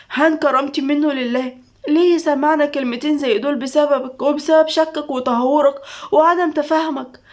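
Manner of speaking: a hint of anguish building to a rising grievance; anguished outburst. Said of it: "دموع بقهر". (بحرقة وقهر يعلى تدريجيًا)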